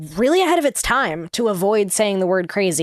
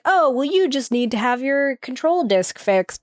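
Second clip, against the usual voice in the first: calm mechanic reassuring machine; 5 semitones higher than usual. Retold or imitated. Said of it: "and it's like".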